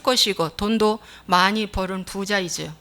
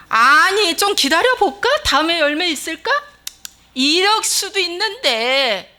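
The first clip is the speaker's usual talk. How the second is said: high-pitched, drawn-out objection; hammed-up wheedling protest; protesting plea; 6 semitones higher, 4 dB louder than usual. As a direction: plead for a little patience. Protesting with imagined kinder alternatives.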